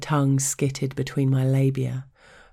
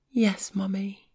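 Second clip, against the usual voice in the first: submissive whisper; 6 semitones higher than usual. A narrator's reading.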